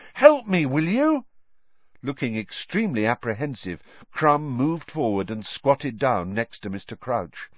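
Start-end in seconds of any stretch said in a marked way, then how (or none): 0.1-1.2 high, louder furious demand; a furious call for help; furious plea. Acted. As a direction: snap at him for help. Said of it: "He looked furiously around".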